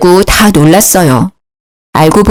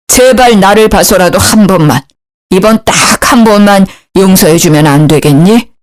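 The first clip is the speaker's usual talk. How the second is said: father-in-law begs daughter-in-law tenderly; gentle apology. Acted. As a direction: apologize on his knees, gently.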